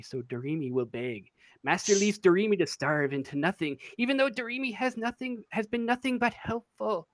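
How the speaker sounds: a hint of a squeaky, whimpering imp; whimpering squeaky creature. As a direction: plead like a starving small thing. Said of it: "very whimpering".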